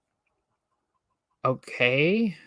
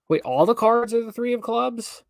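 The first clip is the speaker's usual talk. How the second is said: high, incredulous rise; puzzled double take; surprised; 9 semitones higher than usual. Real, not acted. Reader surprised at the twist.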